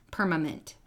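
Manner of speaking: "permament" with a second m in place of n; assimilated M. Shown as a demonstration. Mother imitating her son's slip, "permament". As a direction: repeat the slip "permament" evenly. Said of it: "he's assimilating the M".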